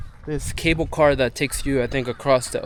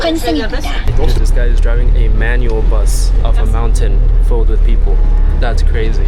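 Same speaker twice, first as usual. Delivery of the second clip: excited; 3 semitones lower, 8 dB louder than usual. Real, not acted. Bus driving manual down mountain.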